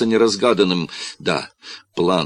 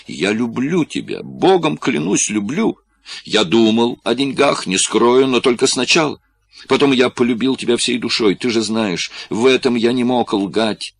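higher, louder, urgent confession; desperate pleading; 6 semitones higher, 3 dB louder than usual. Acted. Corlis swears his love to Marion, desperate pleading. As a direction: plead your love, voice pitched up.

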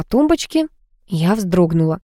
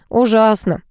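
ordinary delivery

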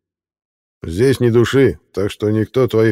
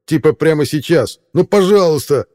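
rising plea; 9 semitones higher, 5 dB louder than usual. Acted. Mel calling on his friends, pleading high and loud. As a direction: pitch climbing higher into a desperate please.

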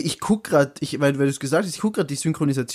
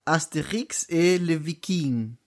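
real French; slower than usual. Pretend. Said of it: "Miggi auf Echt-Französisch".

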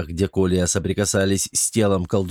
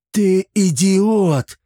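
much higher, louder, slow outraged cry; shocked shout; 8 semitones higher, 5 dB louder, much slower than usual. A narrator's reading. Chermes shouts at the servant who trapped master, shocked shout. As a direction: hurl it at him in horror. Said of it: "воскликнул поражённый увиденным Чермес".

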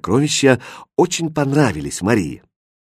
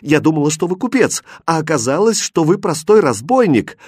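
higher, louder bitter reproach; tearful indignation; 5 semitones higher, 3 dB louder than usual. Acted. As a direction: spit out простой разбойник. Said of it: "чуть не плача сказала напуганная и возмущённая".

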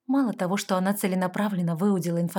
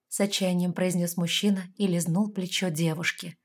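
plain reading voice

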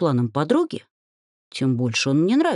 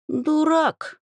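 dismissive; 12 semitones higher than usual. A narrator's reading. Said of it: "отмахнулась она".

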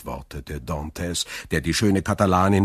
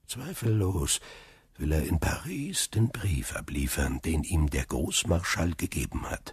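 softer, half-whispered scheming aside; aside to himself; 5 dB quieter than usual. Acted. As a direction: plot under your breath. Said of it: "und zu sich sagte er".

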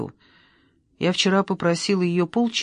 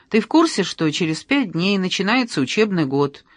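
mocking question. Teasing sister, pitch jump.

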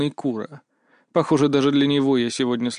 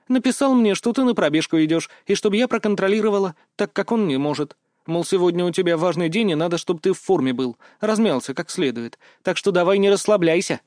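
put-on higher girlish voice, teasing and bossy; lightly voiced girl, playful; 5 semitones higher than usual. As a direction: tease him like a cheeky friend. Mia's voice held. (слегка девичьим голосом, шутливо)

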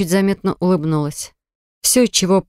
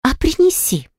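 much higher, defiant cry; cheeky exclamation; 10 semitones higher than usual. A narrator's reading. Cheeky Eva dares Aram to bring proof, higher defiant cry. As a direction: throw the dare right back. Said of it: "воскликнула нахалка".

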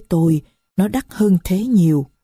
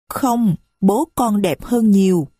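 put-on little girl's voice; 3 semitones higher, slower than usual. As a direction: speak as a little child who is hurt. Marie turns away.

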